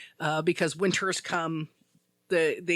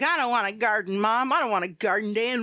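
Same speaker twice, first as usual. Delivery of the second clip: a hammed-up kid whining, higher and louder; mock a sulky child refusing chores; whiny kid; 4 semitones higher, 4 dB louder than usual. Kids whining about gardening chores.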